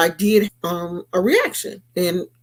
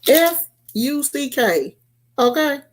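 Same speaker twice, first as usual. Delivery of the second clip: sassy cuss-out. Retold or imitated. Cussing out Karen.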